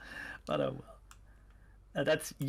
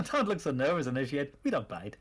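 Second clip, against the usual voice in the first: cultist voice. Acted. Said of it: "the cultist voices?".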